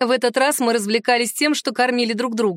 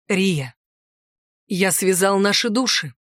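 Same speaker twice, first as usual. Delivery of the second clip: serious; 3 semitones lower, slower than usual. A narrator's reading. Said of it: "серьёзно произнёс он".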